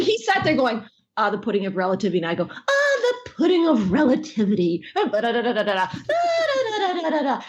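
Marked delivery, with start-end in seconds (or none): 1.2-2.2 fast, deadpan recital. Retold or imitated. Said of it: "he's so deadpan when he does it". 2.5-7.4 put-on higher, giggling, sloppy drunk character voice; drunk cartoon babble. Actress doing her drunk character's scene for the fan, giggling and unhinged. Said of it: "I'm just going off".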